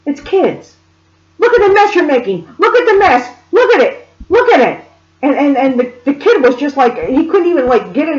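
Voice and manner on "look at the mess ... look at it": high, insistent mock scolding; retold screech, held slightly back; imitated screaming. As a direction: harangue the child as the exasperated mother. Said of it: "I'm holding back how this woman screamed".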